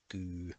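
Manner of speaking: kyy with a long rounded y; kyy, pitkä y; long Finnish y. Shown as a demonstration. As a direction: stretch the y in kyy. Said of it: "the pair of them is pronounced as a Y".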